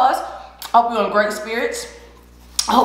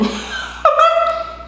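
high squealing laugh. Real, not acted. Big laugh.

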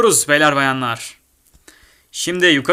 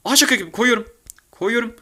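usual speaking voice

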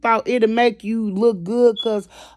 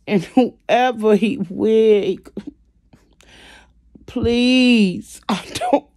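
real rueful laughter breaking through the words; nervous laugh that hides the urge to cry; laughing to keep from crying; 3 dB louder, much slower than usual. Real, not acted. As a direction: laugh through the hurt, close to tears. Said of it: "I'm laughing to keep from crying".

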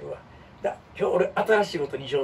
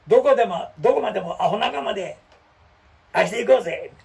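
hammed-up drama hero, a little louder; rally the gang like a cheesy leading man; mock heroic rallying cry; little skit; 4 semitones higher, 5 dB louder than usual. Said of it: "小芝居".

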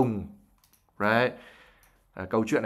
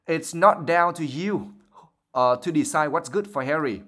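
sharp; 4 semitones higher, slower than usual. Acted. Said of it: "said Missus Weasley sharply".

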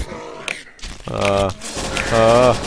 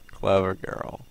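low, soft quote under the breath; quiet movie quote; 4 semitones lower, 9 dB quieter, slower than usual. Retold or imitated. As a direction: murmur it like the hunter in the film. Quoting the raptor movie line.

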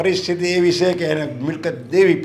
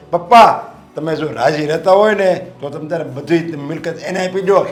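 dutiful son's plea; 2 semitones higher, 5 dB louder than usual. Retold or imitated. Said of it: "માણસ એમ કહે".

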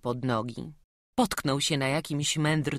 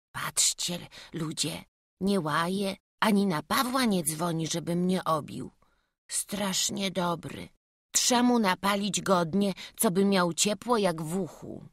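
put-on higher, amazed village boy; boy's voice, wondering; 5 semitones higher than usual. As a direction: marvel in relief like a child. Boy amazed he's not punished.

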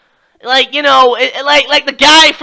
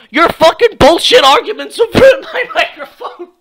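worked-up, higher-pitched mock meltdown; mock outrage; 3 semitones higher than usual. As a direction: rant as if the microphone's ruin were a tragedy. Mock meltdown over broken microphone.

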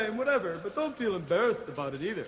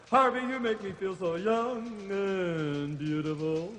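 slow swooning; 2 semitones lower, slower than usual. Acted. Griselda swooning at Harvey.

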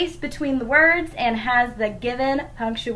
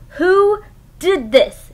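higher, slow crossly drawn-out shout; storybook dinosaur shouting slowly and higher; slow mock shout; 7 semitones higher, 5 dB louder, slower than usual. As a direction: stretch it out, demanding an answer. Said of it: "she shouted".

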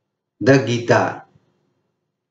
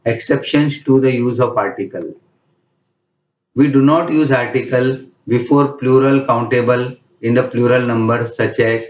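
slow, careful rule read aloud; dictating a rule; much slower than usual. Shown as a demonstration. Teacher reads the grammar rule slowly to the class, dictating. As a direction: spell out the rule slowly for students to note down.

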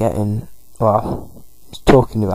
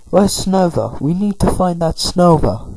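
high, urgent angry search; mad; 7 semitones higher than usual. Acted. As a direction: demand it, higher and pushing. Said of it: "So they're quite mad at the minute".

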